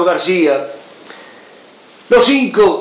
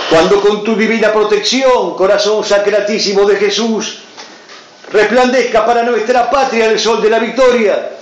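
solemn prayer reading. Acted. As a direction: read it like a fervent prayer. Reads a prayer aloud.

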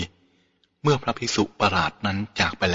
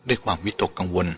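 plain reading voice

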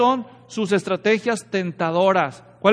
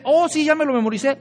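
smug devil; 5 semitones higher, faster than usual. Retold or imitated.

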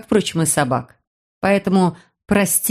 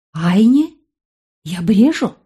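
stunned disbelief; 2 semitones higher, slower than usual. Acted. Narrator startled by the name.

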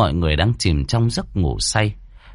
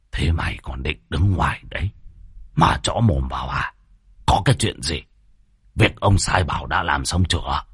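lightly lowered voice of a bossy landlord; a hint of a scornful old chief; gruff old village chief; 4 semitones lower than usual. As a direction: snap at the servant like a petty tyrant. Chánh Tổng voice.

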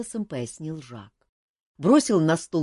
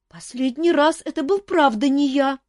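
much higher, louder hurt denial; offended protest; 12 semitones higher, 8 dB louder than usual. A narrator's reading. Boy insisting to the jester it wasn't him, loud and offended. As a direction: protest your innocence, stung. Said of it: "обиделся Мафей".

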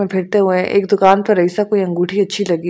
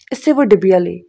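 ordinary delivery

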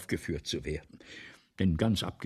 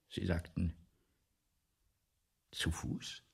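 whisper; 5 semitones lower, 7 dB quieter than usual. Acted. Writer asks, stunned.

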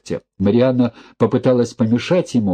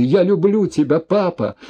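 tearful whisper; 9 semitones higher than usual. A narrator's reading. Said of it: "прошептала она".

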